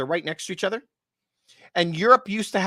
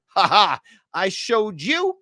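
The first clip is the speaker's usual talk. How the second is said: mock gloating; 3 semitones higher, 4 dB louder, slower than usual. Mocking Europe's gloating.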